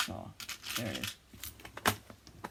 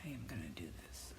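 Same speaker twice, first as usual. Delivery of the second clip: soft unvoiced whisper to herself; whispered resolve; 9 semitones lower, 11 dB quieter, faster than usual. Real, not acted. Crafter whispering her decision to herself, whispered.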